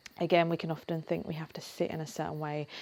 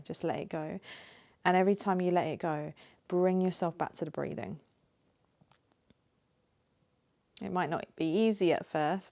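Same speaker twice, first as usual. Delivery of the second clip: gentle guiding voice with long pauses; lightly held meditation-teacher delivery; guided meditation. Acted. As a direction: ease them into it, unhurried, leaving space between phrases.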